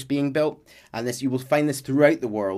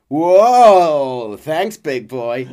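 flirty thanks; 3 semitones higher, 11 dB louder, much slower than usual. Retold or imitated. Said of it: "he'll be like".

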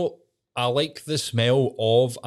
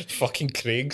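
amused disbelief; 3 semitones higher, slower than usual. Real, not acted. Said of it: "laughing at the story".

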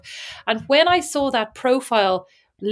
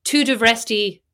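Irish-accented French; much slower than usual. Shown as a demonstration. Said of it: "speak French in the accent".

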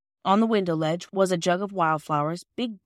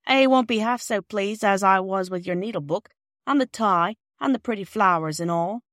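put-on kind old lady; 4 dB louder than usual. Mrs Ransom thanks the children.

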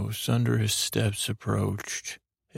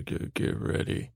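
whispered aside. Retold or imitated. Narrator warning Bach as the war gods approach, whispering. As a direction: whisper it to a companion, unvoiced.

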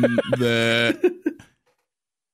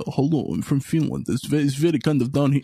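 lightly put-on Finnish accent attempt; a hint of a Finnish accent, half-hearted; 2 semitones higher than usual. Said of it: "What is a Finnish accent".

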